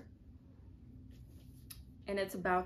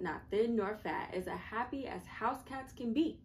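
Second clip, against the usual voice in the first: lively storybook poem voice; reading to children; 2 semitones higher than usual. A narrator's reading. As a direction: read it like a picture book to kids.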